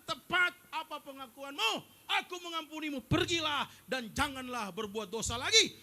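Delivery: loud, proclaiming voice of the Lord; God speaking. Retold or imitated. The Lord tells the confessing sinner he is forgiven, proclaiming. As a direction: declare forgiveness with full force. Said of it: "Tuhan bilang".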